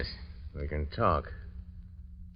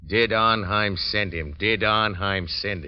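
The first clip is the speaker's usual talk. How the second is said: voicing his thoughts; slower than usual. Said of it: "You're thinking".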